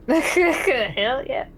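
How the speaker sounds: laughing through the words. Real, not acted. Repeats character's line, laughing.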